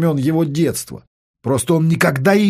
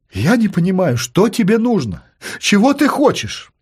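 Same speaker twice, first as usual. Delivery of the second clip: desperate questioning; 5 semitones higher than usual. Acted. Captive desperately questions captor.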